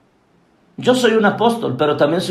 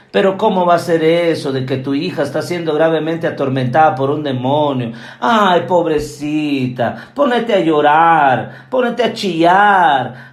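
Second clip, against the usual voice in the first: mock pitying pastor; 4 semitones lower than usual. Pastor coddling a grieving woman, mock pitying. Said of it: "le hubiera hablado a las emociones".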